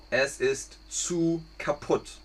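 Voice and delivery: slow, clear teacher repeat with "zu" stressed. Shown as a demonstration. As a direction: say it slowly for learners.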